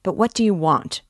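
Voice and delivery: loud and fed up, shouting; the porter shouting at the loiterer a second time; angry shout. Acted. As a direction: yell it at him, losing patience. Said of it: "the porter shouted again".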